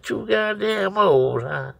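high, drawn-out incredulous echo; retold indignant yell. Storyteller yells back at the boy, indignant high echo. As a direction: throw the insult back way up high. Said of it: "I yelled at the little boy straight".

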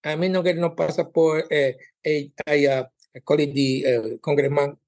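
put-on light Latin American accent on broken English; Latin accent imitation. Comedian imitates Latina lady on the news, light Latin accent. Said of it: "there's this Latin lady going on the news".

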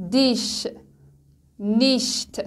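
دیش، نیشت with a soft German ich-sound. Shown as a demonstration.

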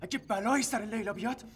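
vengeful threat. Acted. Man swears revenge.

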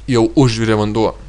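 "užvirė" stressed moderately, without drama. Shown as a demonstration. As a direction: lean on "užvirė", let "vanduo" follow lightly. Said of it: "Somehow the stress is on".

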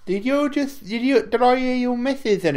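high, excited surprise; surprised. Real, not acted. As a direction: jump up in surprise. Surprised at a voice in the background.

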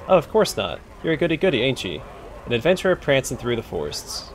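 a lightly voiced rough cockney thug taunting; cockney bully. Bully jeering at the adventurer, light rough cockney voice. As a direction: sneer it like a street tough.

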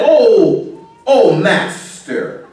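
strong "oh", then a long, slow "master"; retold crying out. Preacher quoting the servant's cry, a drawn-out plea. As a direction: draw the plea out slowly. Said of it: "you gotta cry out to the master".

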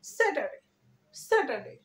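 স্যাটারডে as a compact "SAT-a-day"; smart pronunciation. Shown as a demonstration. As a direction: leave out the r in স্যাটারডে. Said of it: "smartly কিভাবে উচ্চারণ করব".

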